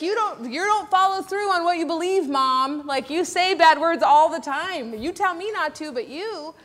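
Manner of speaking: loud, lightly voiced indignant kid; scolding child. Child accusing mom of saying bad words, loud mock scolding. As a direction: call out mom like an exasperated child.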